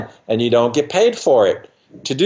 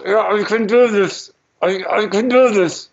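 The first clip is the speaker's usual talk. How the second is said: higher, dreamy voice of a hypnotized patient chanting to herself; patient reassuring herself; 6 semitones higher than usual. Retold or imitated. Hypnotized dental patient telling herself she can do it, in a higher, dreamy voice.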